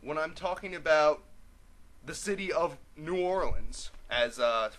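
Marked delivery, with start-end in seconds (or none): 2.9-3.9 New Orleans as noo OR-lunz; New Orleans ending in "lunz"; New Orleans as in song. Shown as a demonstration. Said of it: "so famously pronounced in the song".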